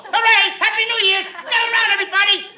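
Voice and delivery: high, rowdy party cheering; boisterous celebratory shouting; loud talk. Acted. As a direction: whoop it up like New Year's. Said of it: "I always talk loud".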